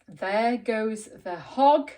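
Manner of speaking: lightly voiced villain, slow, loud at first; thief's voice. A narrator's reading. Teacher voices the thieves on the farm, slow villain voice. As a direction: stretch it out like a storybook baddie.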